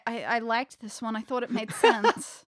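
mock-hurt, dragging out the end. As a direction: put on a slightly wounded, apologetic voice. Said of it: "I put on my hurt voice".

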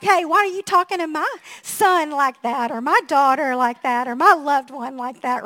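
a retold sassy mama confronting a stranger. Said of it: "you're all sassy".

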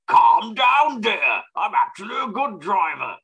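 mock catchphrase. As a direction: ham up a pompous catchphrase. Quoting director's catchphrase mid-review.

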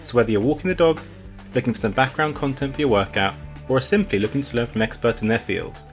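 upbeat announcer read over music; podcast intro read. Acted. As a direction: read it like a show opener.

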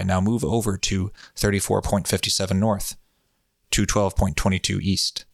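steady, even hypnotic voice. Shown as a demonstration. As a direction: lull the listener with even tones. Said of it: "Bob hypnotic voice is fun".

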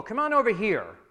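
high, loud summons; calling out. A narrator's reading. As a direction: call the crowd over to you. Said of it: "Elijah called to all the people".

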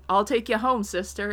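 mock-seductive line to a nun; salacious. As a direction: say it like a sly come-on. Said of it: "not that salaciously".

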